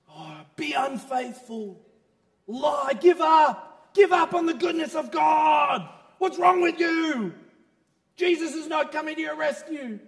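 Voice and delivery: high, loud, slow taunting shout; taunting devil. Acted. Devil bashing the man with temptation, loud slow taunts. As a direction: hammer the words as the tempting devil. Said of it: "The devil comes in".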